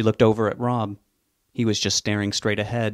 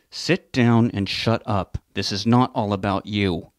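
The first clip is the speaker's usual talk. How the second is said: harsh through gritted teeth; slower than usual. Acted. Husband hisses at his wife to sit down, harsh through teeth. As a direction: rein her in, teeth gritted. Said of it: "spoke harshly through them".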